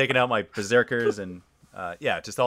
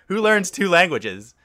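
laughing disbelief; 9 semitones higher, 7 dB louder than usual. Real, not acted. Marveling at friend's skills.

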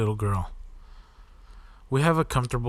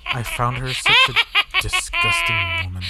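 laughing; 6 dB louder than usual. Real, not acted. Laughing while reading.

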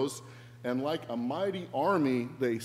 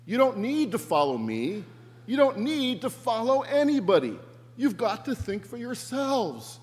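high, raised voice of exasperated insistence; yelling to a mob; 7 semitones higher, 5 dB louder than usual. Acted. Brian addresses the mob from the window, yelling. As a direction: yell it out over a crowd from a window. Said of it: "he yells to them".

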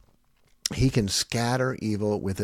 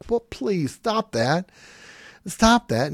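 higher-pitched nagging threats, put on; mock exasperated parent; 6 semitones higher, slower than usual. Parent warning a kid to obey now, mock exasperation. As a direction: imitate a parent pleading, then threatening.

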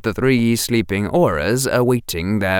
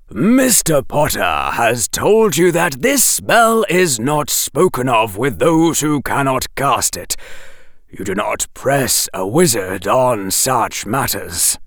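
shocked; 2 semitones higher than usual. Acted. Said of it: "sounding genuinely shocked".

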